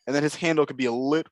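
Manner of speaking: speaking through hiccups; hiccuping mid-sentence. Real, not acted. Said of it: "Now I have the hiccups".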